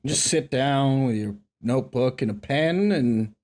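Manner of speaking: drawn-out Southern drawl; put-on genteel Southern drawl; Southern accent. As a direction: linger on the last word in a Southern accent. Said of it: "I gotta stop talking like that".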